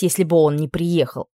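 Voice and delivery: ordinary delivery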